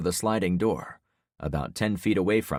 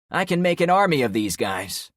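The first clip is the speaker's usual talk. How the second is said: threatening loudly; 9 semitones higher, 6 dB louder than usual. Acted. Trevor threatening.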